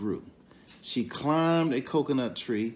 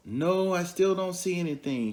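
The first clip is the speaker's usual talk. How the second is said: deer's reply; 7 semitones higher than usual. Acted. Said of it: "she said".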